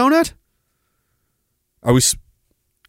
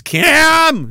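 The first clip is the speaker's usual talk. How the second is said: high, drawn-out mock holler; imitated yell; 11 semitones higher, 3 dB louder than usual. Host reading out a chat message, imitated yell. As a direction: call out the name in a raised voice. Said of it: "He's yelling at Cam".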